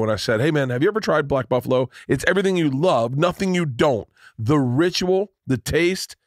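upbeat host-read sponsor spot; lively, conversational advertisement delivery; podcast ad read. Acted. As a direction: pitch it to listeners with punched phrases. Reads a sponsor ad.

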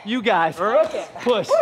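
very high, straining coach yell; all-out rallying shout. Real, not acted. Coach counting down the last ten seconds, full-force rallying shout. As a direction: scream them through to the finish.

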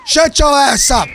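yell. Real, not acted. Yelling at crying game baby.

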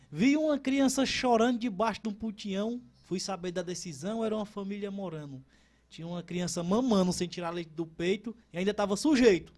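reciting the Leonardo Bastião verse to the host; poem recital. Acted. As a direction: recite it like a poet at a cordel fair.

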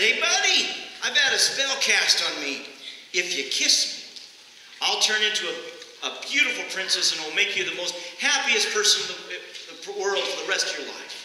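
a lightly voiced cheeky frog making its pitch; talking frog. Talking frog pleads with preacher.

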